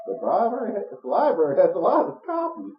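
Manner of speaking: lightly voiced old librarian lady; a hint of a creaky granny; old woman voice. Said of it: "giving her the old woman voice".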